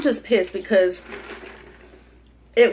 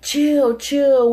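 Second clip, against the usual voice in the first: shouted high "chill, chill"; urgent call to calm down; loud plea; 5 semitones higher, 4 dB louder than usual. Retold or imitated. Retold fight, friend pleads.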